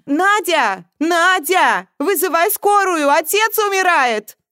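high, loud, panicked shouting; alarmed cry. A narrator's reading. Woman upstairs cries that father is dying, shouting. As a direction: scream for help through the house. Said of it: "раздался крик Марии Егоровны".

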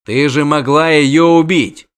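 loud, slow accusation; angry rebuke. Acted. Witcher to dryad who nearly hit the girl, angry rebuke.

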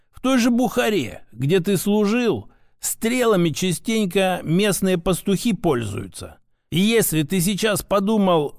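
a hint of a lecturing grandfather; lightly voiced grandfather, reproving. Grandfather reminds grandson of his own letter, mildly reproving. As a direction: make the case as an old mentor, lightly in character.

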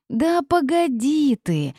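high, drawn-out impatient hushing. A narrator's reading. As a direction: cut off a pest with rising impatience. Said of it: "нетерпеливо осадила я".

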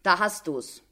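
understated satisfaction, falling close; satisfied. A narrator's reading. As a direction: say it with contentment, settled. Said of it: "nochmals mit Befriedigung".

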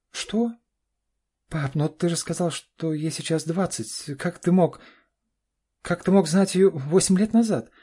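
very high, loud shock. A narrator's reading. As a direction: reel at the news. Daughter shocked. (в шоке, очень высоко)

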